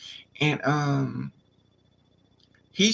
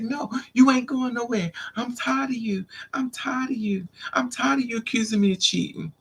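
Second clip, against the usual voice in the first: high-pitched, worked-up whining complaint; imitating his indignant rant; mock screaming protest; 9 semitones higher than usual. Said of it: "He's screaming".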